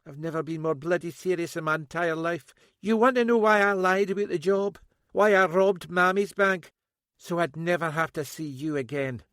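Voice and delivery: loud high bitter accusation; bitter daughter. A narrator's reading. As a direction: spit the accusations at him.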